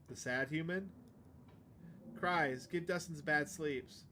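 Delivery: halting broken speech, a hint of a simple creature; lightly voiced simple creature. Dustin the creature telling about the humans, halting broken speech. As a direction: speak in short broken bits like a simple creature.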